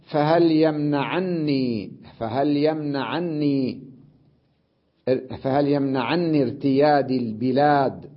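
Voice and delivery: slow, measured poetry reading; verse recitation. Shown as a demonstration. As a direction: recite metrically, drawing out the long vowels. (إلقاء شعري متمهل)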